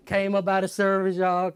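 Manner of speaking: usual speaking voice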